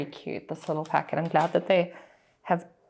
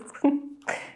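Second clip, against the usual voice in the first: nervous laugh. Real, not acted. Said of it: "there's the nervous laughs again".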